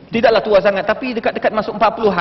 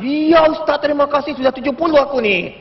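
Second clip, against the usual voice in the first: imitated pleased auntie; 2 semitones higher than usual. Auntie thanking the preacher for his compliment, imitated delight. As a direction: play an auntie tickled by a compliment. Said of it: "Suka makcik".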